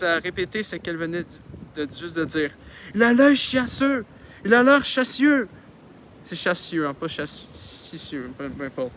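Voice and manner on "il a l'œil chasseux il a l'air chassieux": high, loud, drawn-out mocking falsetto; high-pitched mimicry. Husband aping his wife's words, high-pitched. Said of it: "Son mari a pris une voix haut perchée".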